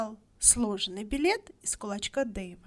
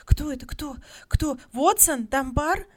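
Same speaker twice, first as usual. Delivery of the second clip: high, loud eager questions; women clamouring to know who; high excited chatter; excited crowd questions; 6 semitones higher, 9 dB louder than usual. A narrator's reading. Women all talk at once.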